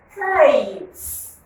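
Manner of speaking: "faith" lifted high for pupils; model word. Shown as a demonstration. Teacher modelling a word, high and clear. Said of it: "Pronounce that word again".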